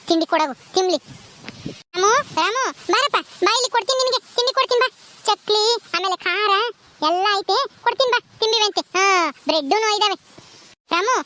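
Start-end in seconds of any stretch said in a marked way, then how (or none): 2.0-11.1 lifted, sing-song coaxing; coaxing a child. Acted. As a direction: lure a tearful toddler over with treats. Coaxing a crying child with snacks.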